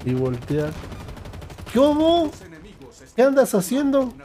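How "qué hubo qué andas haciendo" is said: much higher put-on voice; high-pitched imitated hello; old acquaintance greeting. Voicing old man greeting back.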